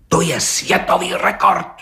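agitated exclamation; blurted excitedly. A narrator's reading. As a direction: blurt it out, worked up. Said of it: "vyhrkl rozčileně".

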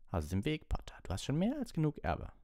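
high, harsh command; angry order climbing high; rasping order. A narrator's reading. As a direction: rasp it impatiently at the pupil. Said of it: "schnarrte Snape".

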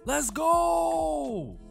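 high, loud hype yell; excited shout. Real, not acted. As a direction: scream it with joy. Hype reaction to anime trailer.

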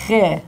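teacher's crisp "Che"; Lakota che. Shown as a demonstration. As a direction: clean demo of "Che". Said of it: "the word che".

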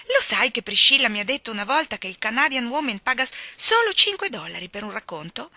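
lightly voiced excited girl; a touch of gossipy glee; chatty Diana. Diana keeps celebrating. (ragazza allegra che chiacchiera)

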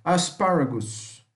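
slow asparagus with a closed A. Shown as a demonstration. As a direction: draw out Asparagus, stressed second syllable. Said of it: "Como se fosse um A mais fechado".

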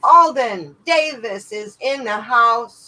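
hype-man welcome for a newcomer; announcer call. Real, not acted. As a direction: boom out the arrival. Announcing a bidder joining the stream.

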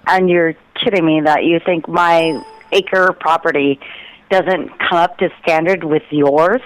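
ordinary delivery

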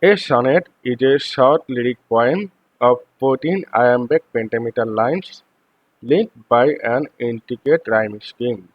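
slow, deliberate reading of the English text; slow textbook reading. Acted. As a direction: read each word out carefully for the class. Reads English definition slowly. (ধীরে ধীরে পাঠ্য পড়া)

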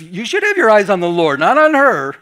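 mock-righteous rebuke; indignant scolding. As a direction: scold him in your head, half-laughing. Jealous inner thought retold.

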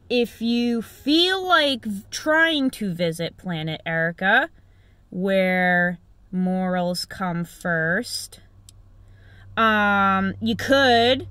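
slow, dreamy alien voice. Acted. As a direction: drift out the words like an alien. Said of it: "I'm already sounding like an alien".

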